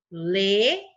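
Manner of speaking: LENHADOR in three beats, le, nha, dor, with long gaps; widely spaced syllables in "lenhador". Shown as a demonstration. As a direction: count out "lenhador" one syllable at a time. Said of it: "Três sílabas".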